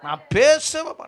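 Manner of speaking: high-pitched mock refusal; stubborn refusal. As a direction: act out someone refusing to make up. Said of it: "நம்ம சொல்லுவோம் பாரு".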